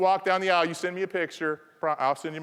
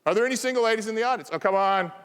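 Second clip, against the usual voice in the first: louder, fast, pushing repeat of the question; louder insistent ask; 5 semitones higher, 4 dB louder, faster than usual. Shown as a demonstration. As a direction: call it out again, hurrying the crowd.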